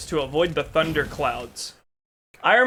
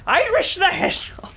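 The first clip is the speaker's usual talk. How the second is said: hedgehog hero voice; 14 semitones higher than usual. Pretend. Joke hedgehog intro voice.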